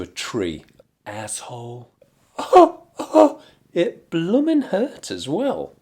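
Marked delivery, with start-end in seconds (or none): 1.1-1.9 muttered aside. Acted. Quiet aside to viewers about Farage. Recurring muttered insult gag. 3.7-5.7 high, slow mock whimper; laughing whine. Admitting he walked into a tree, mock whimper.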